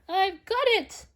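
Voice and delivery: high, bright burst of discovery; excited cry. A narrator's reading. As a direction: shout it as the idea hits. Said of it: "then cried".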